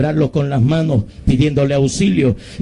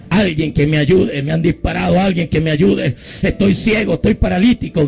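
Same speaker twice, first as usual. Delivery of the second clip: higher, urgent re-enacted calling, only mildly raised; retold cry for help; 5 semitones higher than usual. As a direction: call for help with mounting desperation. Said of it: "empecé a gritar por la ventanilla".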